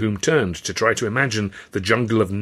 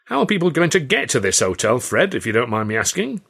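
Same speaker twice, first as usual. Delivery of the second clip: raised, cheeky needling question; chirpy cheek; 4 semitones higher, 3 dB louder than usual. Acted. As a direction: chirp it up to tease the boss. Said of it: "George Roby chirped up".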